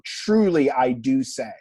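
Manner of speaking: loud, solemn weight on "truly" and "do"; emphatic DO. Shown as a demonstration. Teacher translating an amen saying, "do" stressed. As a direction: stress "do" firmly, slightly loud. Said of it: "Could be called a present emphatic".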